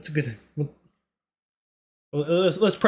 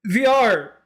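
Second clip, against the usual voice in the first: higher, louder comic protest; mock outburst; 7 semitones higher, 3 dB louder than usual. Streamer acting out own money excuse, mock outburst. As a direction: burst out, then stress the last word. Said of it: "I'm always like".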